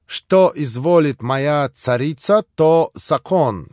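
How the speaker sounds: slow, courtly phrasing; bow and flatter the lady; lightly voiced gallant pan; gallant Polish pan. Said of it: "галантно поцеловав ручку".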